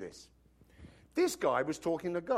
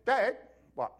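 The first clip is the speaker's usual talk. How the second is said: eager son; 5 semitones higher, 3 dB louder than usual. Retold or imitated. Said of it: "comes a little later and says".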